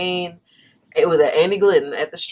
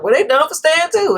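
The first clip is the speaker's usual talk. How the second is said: mock careless boyfriend; 9 semitones higher, 3 dB louder than usual. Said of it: "He's like".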